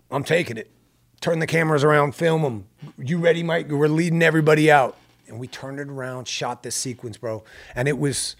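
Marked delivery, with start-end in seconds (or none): 0.1-5.0 rally the crew, quick orders; urgent director orders. Retold or imitated. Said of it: "So I'm like".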